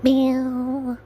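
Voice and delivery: high playful meow; cat meow. Pretend. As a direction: mew like a cat. Voice mod cat sound.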